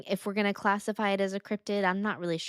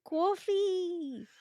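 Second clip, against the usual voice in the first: Jersey devil scream; 12 semitones higher than usual. Pretend. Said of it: "how do you do that?".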